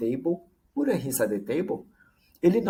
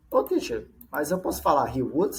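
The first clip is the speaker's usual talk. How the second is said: student calling out; 2 semitones higher than usual. Retold or imitated. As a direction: call out like a student with a question. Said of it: "student voice asking teacher".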